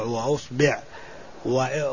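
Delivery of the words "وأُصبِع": وأصبع as "wa-usbi'"; short "i" after the b in وأصبع; kasra on ba. Shown as a demonstration. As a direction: say وأصبع with "u" first, "i" second. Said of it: "مع الحركات الثلاث في الباء".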